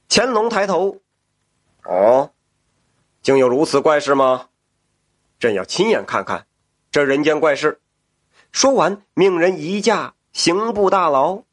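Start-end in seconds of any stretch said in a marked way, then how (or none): 1.8-7.8 lower, measured imperial tone; emperor voice. Acted. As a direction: speak as a curious emperor. The emperor wonders aloud.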